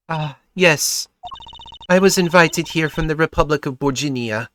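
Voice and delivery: put-on lightly European-accented singer; hint of a European accent; vague European accent. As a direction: speak carefully in a loose European accent. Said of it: "vaguely European accent".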